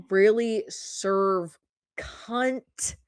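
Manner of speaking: stretched-out sassy phrase, slow; sassy drawled slang. Pretend. Vlogger to viewers, slow sassy diva delivery. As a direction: draw it out with a diva flourish.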